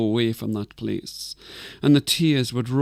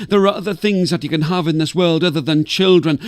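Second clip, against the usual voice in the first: put-on louder and higher, a cross old woman yelling down; annoyed scream; 4 semitones higher, 5 dB louder than usual. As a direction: shoo her away from the mountaintop. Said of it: "she would scream down at Anjalara".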